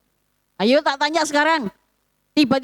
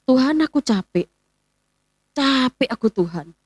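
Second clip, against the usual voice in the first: tired sigh. Retold or imitated. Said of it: "hati saya ini ngomong begini".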